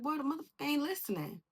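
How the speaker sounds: high, quick exasperated comeback; protesting. Retold or imitated. Younger self complaining to mom about brother, high exasperated protest. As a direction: blurt it as a defensive complaint.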